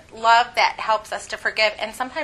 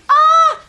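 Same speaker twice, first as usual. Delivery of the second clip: a sudden high loud shriek; startled shriek; 12 dB louder than usual. Retold or imitated. Mother yanking her girl away, shrieking. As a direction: shriek as if recoiling in alarm. Mom pulls child away, reacts.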